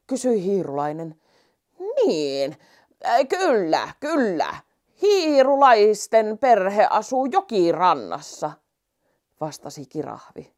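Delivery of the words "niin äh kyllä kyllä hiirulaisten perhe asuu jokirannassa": slow, louder and certain; remember, then tell it plainly; giraffe voice. Acted. Giraffe answers the mouse. (kirahvin hidas, varma ääni)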